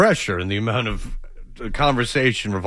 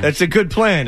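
mock benchwarmer; 5 semitones higher than usual. Mocking a benched Bulls player to his cohosts, in a hammed-up sarcastic voice. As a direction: ham up a clueless bench player.

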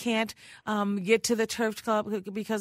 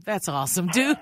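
laughing; 4 semitones lower, 3 dB louder than usual. Real, not acted. Host amused by guest's phrase.

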